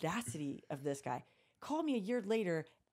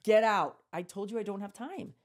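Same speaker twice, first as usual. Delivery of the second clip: loud, angry order to get out; yelling at the old guy to leave; furious shout; 5 dB louder than usual. Retold or imitated. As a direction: throw him out of your office. Angry retold confrontation in office.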